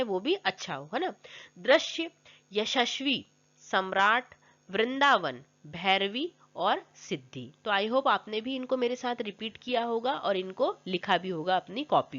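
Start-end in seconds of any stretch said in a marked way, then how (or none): 1.6-7.5 each word said separately and fully sounded; careful pronunciation. Shown as a demonstration. Teacher reads out words for pupils to repeat, careful pronunciation. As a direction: model the correct pronunciation, word by word. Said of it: "शुद्ध उच्चारण है".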